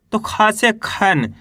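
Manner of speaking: खा से खी slowly, long ee in खी; slow demo. Shown as a demonstration. Teacher slowly showing students खा becoming खी. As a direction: spell it out for pupils. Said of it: "अंग की मात्रा है".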